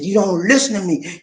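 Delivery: a touch of reproach; wife scolding over the driver's cost; mild retold anger. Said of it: "She was angry".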